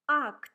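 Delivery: "act" repeated loud and clear; teacher repeating the word loudly; repeating for students. Shown as a demonstration. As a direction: model "act" again for students to copy. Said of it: "let's try to read the first Russian words".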